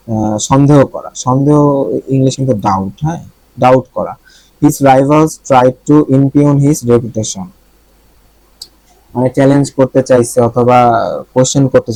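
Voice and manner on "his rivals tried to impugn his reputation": slow dictation reading. Shown as a demonstration. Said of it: "reads example sentence slowly".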